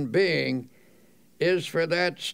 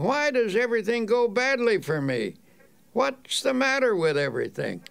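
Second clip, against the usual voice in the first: higher-pitched imagined complaint; mock complaint; 6 semitones higher than usual. Asking oneself why things go badly, mildly complaining. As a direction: lightly act out someone bemoaning their luck. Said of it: "you will find yourself asking".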